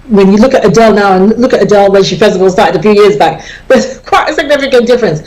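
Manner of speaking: chuckling through the words, a bit quick; amused, let the laugh leak into the line; quick talk with a real chuckle. Real, not acted. Amused remark about a singer's looks.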